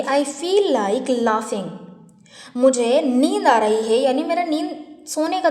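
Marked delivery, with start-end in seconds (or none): 0.0-1.6 very slow, clear teacher reading; slow model sentence. Shown as a demonstration. Teacher shows the phrase to her class, very slowly. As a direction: drag each word so students hear it. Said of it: "तो मैं बोलूँगी".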